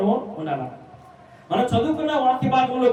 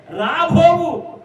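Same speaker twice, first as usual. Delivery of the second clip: fervent promise; 5 semitones higher than usual. Acted. God's promise preached with fervour.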